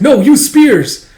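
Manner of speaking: high, loud, slow yell; officer correcting his order in battle; shouted command. Acted. Ordering spears.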